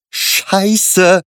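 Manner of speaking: high, loud startled curse; 1 shocked curse. A narrator's reading. Jas curses on seeing the dead man. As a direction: blurt it out in shock.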